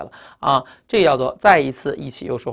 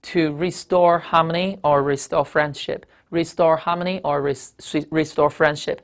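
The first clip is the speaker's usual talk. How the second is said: slow read-out; slower than usual. Shown as a demonstration. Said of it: "这个词翻译什么意思呢".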